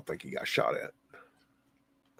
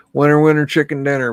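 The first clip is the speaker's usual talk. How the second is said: excited cheer; 3 semitones higher, 8 dB louder, faster than usual. Real, not acted. Cheering a great church find.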